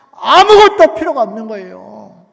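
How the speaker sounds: loud, slow climactic declaration; full-force preaching; preaching shout. Acted. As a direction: thunder it slowly from the pulpit.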